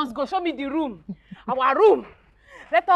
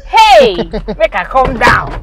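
excited; 2 semitones lower, 11 dB louder, slower than usual. Acted. Arriving in Lagos, overjoyed.

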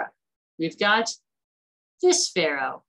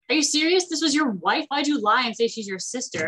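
higher-pitched, incredulous retold outrage; mock indignation; 5 semitones higher than usual. Pharaoh confronting Avram for lying about his wife, mock indignant. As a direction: act out an affronted complaint, pitched up. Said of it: "is mad at Avram".

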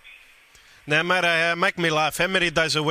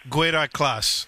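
slow Guido class; 2 semitones lower, much slower than usual. Acted. Names his own class.

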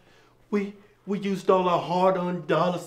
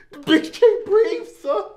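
blurted punchline; 10 semitones higher, 4 dB louder than usual. Acted. Line blurted higher, retake.

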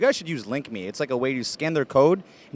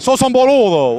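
louder, higher Argentinian Spanish impression; Argentinian accent; 5 semitones higher, 6 dB louder than usual. Shown as a demonstration. Man imitating Argentinian speech for the women, Argentinian accent. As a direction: throw out the Argentinian slang loudly. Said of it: "What do they say?".

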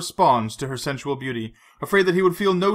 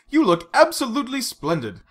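swooping high on the compliments; wry, admiring welcome; 6 semitones higher, 3 dB louder than usual. A narrator's reading. Bond greets a tanned Vesper, wry amazement. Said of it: "with a wry gesture of welcome".

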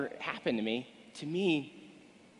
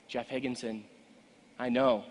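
ordinary talk

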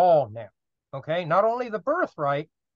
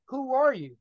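put-on confused old man; 7 semitones higher than usual. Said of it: "he says".

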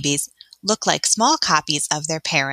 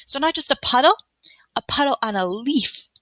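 marveling; 8 semitones higher than usual. Real, not acted. Teacher marvels at tiny puddle.

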